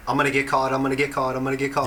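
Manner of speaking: hammed-up worried repetition; mock paranoia. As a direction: chant it like a paranoid stoner. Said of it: "like, paranoid".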